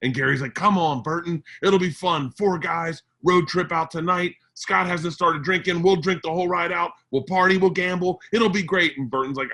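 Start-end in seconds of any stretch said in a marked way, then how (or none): 0.5-9.0 pitched-up, pumped-up sales pitch to a pal; eager coaxing. Retold or imitated. Gary talking Burton into a Vegas road trip, eager coaxing. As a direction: talk him into it, voice lifted.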